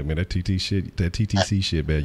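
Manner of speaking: talking through a burp. Real, not acted. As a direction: burp mid-sentence. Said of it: "I'm burping and shit".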